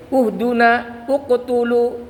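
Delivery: "Uhduna, uqtulu" each opening on a clear u; dhammah reading. Shown as a demonstration. Teacher giving examples of dhammah, u-initial reading. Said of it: "gitu, ya".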